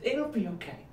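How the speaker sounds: soft, calm and soothing; calm her down gently; eerily gentle reassurance; calmest voice. Retold or imitated. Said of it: "in the calmest voice I could muster".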